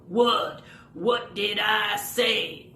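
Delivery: slow, puzzled puppet; lightly voiced baffled puppet; Rory puppet voice. Rory puppet protests to Bowser, slow and puzzled. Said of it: "And Rory will go".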